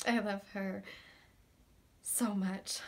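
low, soft, long pauses; hushed love confession. Acted. Declaring love for an absent partner, low and hushed. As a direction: let each phrase fall softly.

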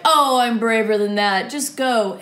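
loud brushing-off knight; dismissive. Retold or imitated. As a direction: wave the boy's worry away. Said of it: "And the knight's like".

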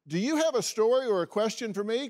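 bright, fast promo read; upbeat show sign-off; announcer. Acted. Host reads show outro.

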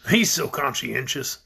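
low, slow, pleased tone; highly pleased. A narrator's reading. Man proud of his brother, pleased. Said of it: "said Shaggy, highly pleased".

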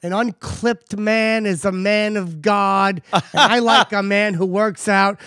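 slow, lightly voiced mother giving advice; unhurried mock-motherly proclamation; imitated mother. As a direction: pronounce it slowly like a mother's solemn wisdom. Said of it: "My mother told me".

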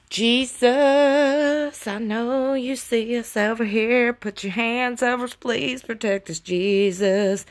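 half-playful prayer, opening on a drawn-out cry; pleading prayer. Acted. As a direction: call out to Jesus for protection. Acted plea to Jesus over tornadoes.

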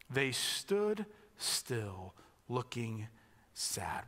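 very slow, hushed and heavy; slow sad reading. Shown as a demonstration. Pastor repeating the verse slowly and sadly for the congregation. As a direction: let the stillness sink in. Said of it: "What a great image for deep sadness".

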